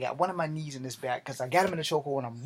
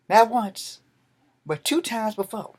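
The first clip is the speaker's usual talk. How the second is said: loud, raised angry voice; angry shout; 6 semitones higher, 7 dB louder than usual. Retold or imitated. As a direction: yell it at him, fed up. Angry at his attacker.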